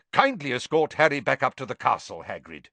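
crisp, sharp order; sharply. Acted. Dumbledore to Hagrid, a sharp order. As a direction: cut it short and firm. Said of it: "said Dumbledore sharply".

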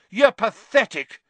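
high, loud yell. Acted. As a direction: yell it in his face. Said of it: "Harry yelled".

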